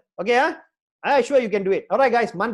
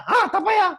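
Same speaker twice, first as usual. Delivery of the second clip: dismayed echo; 12 semitones higher, 6 dB louder than usual. Retold or imitated. Mocking the interviewer's reply.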